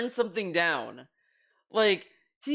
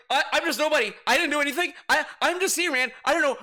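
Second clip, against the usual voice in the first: mock innocent whine; 5 semitones higher, much faster than usual.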